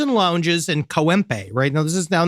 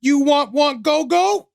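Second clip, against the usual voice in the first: seductive bar woman; 8 semitones higher than usual. Retold or imitated. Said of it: "dudes being like".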